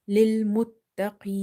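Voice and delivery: Lil Muttaqeen with the long vowel held; stretched vowel. Shown as a demonstration. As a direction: draw out Muttaqeen slowly. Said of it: "stretching it to three alifs".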